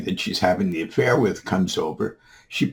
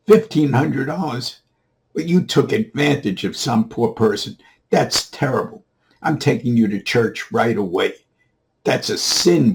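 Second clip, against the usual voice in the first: raised, indignant voice, opening high; acted scolding; 4 semitones higher, 5 dB louder than usual. Father scolding his son for overcharging, indignant. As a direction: scold like an appalled parent.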